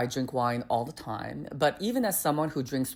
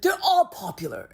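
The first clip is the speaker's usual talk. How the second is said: server mimicked. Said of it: "he's like".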